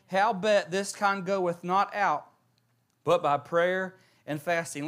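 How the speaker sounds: measured, solemn Bible reading; reading King James verses to the congregation; scripture reading. Acted. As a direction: read the Gospel passage steadily. Reads scripture aloud.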